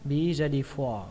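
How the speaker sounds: BE READY FOR, slow with long "for"; drawn-out FOR. Shown as a demonstration. Teacher repeating the phrase, long FOR. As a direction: stretch "for" at the end. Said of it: "các bạn kéo dài nó ra nhé".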